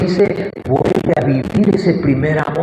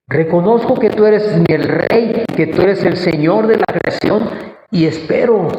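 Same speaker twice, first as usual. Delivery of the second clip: raised, exultant answer to God; high-pitched, rejoicing proclamation; joyful declaration; 4 semitones higher than usual. Acted. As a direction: call it out to the Lord with joy. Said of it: "será un día de gozo".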